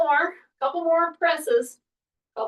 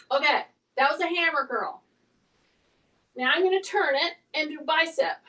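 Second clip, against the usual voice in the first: usual speaking voice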